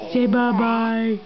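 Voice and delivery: slow coaxing bye-bye. Shown as a demonstration. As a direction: stretch it out slowly so she copies. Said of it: "Lila, say bye-bye".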